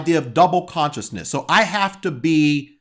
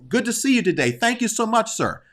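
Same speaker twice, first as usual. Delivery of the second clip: lightly voiced proper office politeness; a hint of buttoned-up courtesy for the boss; cleaned-up polite talk; 5 semitones higher, faster than usual. Employee mildly greeting his boss, formal and polite. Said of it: "So we have to clean it up".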